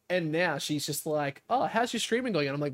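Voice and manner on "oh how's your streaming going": imitating mum. Imitates his mum asking sweetly.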